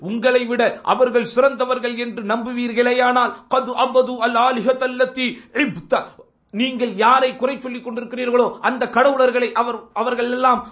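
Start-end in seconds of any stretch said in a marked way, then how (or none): 3.5-6.0 slow, measured Arabic quote; slow Arabic recitation. Retold or imitated. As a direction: draw out each Arabic word. Quoting Arabic words slowly. (மெதுவான அரபு ஓதல்)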